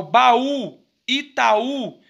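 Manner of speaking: "baú, Itaú" with the final ú strong and drawn out; stress on final U. Shown as a demonstration. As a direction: lean on the last ú in "baú, Itaú". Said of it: "ele tem o som mais forte". ("baú, Itaú" com o ú final forte e alongado)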